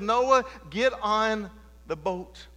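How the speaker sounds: slow, far-off commanding voice; God's command. Acted. God tells Noah to board, slow commanding voice. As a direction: give the order slowly, with weight.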